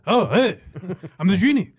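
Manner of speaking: lightly voiced Robin Williams genie; a hint of the excited genie; genie impression. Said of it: "your genie impression".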